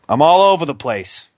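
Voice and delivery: Boston vowels on over and place; Boston accent. Real, not acted. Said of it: "quite the Boston accent there".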